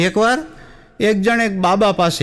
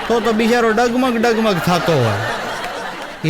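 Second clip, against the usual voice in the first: laughing punchline; 2 semitones higher, slower than usual. Acted.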